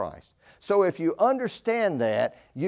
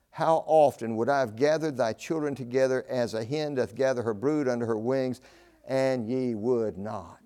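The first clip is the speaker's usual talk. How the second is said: sorrowful appeal; 4 semitones lower than usual. Acted. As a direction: let the last words drag in sorrow. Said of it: "our Lord's sorrowful appeal".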